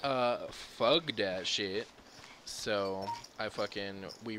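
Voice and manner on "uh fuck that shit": dismissive. Retold or imitated. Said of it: "I was like".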